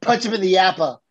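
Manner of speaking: a bad, hammy Boston accent on "yappa"; lightly faked Boston accent, barely there. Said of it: "that's my attempt at a Boston accent. Horrible".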